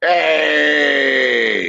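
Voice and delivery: bad British accent shout; horrible accent. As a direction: yell a hammed-up British greeting. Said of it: "do a horrible accent".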